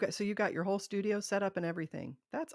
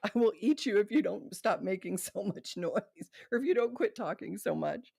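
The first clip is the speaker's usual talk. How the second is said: lightly voiced cannibal threat; a hint of a hungry cannibal warning; mildly mock-menacing cannibal; 3 semitones higher, 3 dB louder than usual. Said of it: "but I loved the cannibal".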